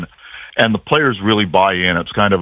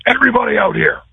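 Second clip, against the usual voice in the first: calling out; 12 semitones higher, faster than usual. Retold or imitated. Coach calling team at practice.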